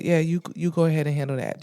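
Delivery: low-key, quick and annoyed; dry, over it. Retold or imitated. Client to therapist whose ex pulled up, dry and over it. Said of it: "I was so dry and over it".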